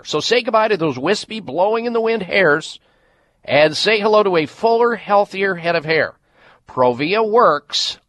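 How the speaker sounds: upbeat ad read for a hair product; infomercial. Acted. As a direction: pitch it like a radio spot. Host reads hair-loss ad.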